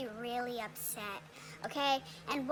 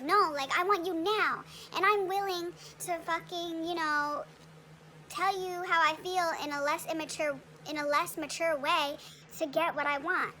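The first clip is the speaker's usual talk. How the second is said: put-on childish demanding; 3 semitones higher than usual. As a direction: whine it out like an immature lover. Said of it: "it's like a very childish, immature".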